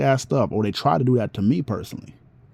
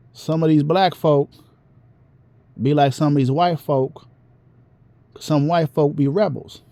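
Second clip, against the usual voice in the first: lightly imitated Southern OG; a hint of a Southern old-timer teaching; Southern elder; 3 semitones higher than usual. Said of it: "he talked with a very Southern voice".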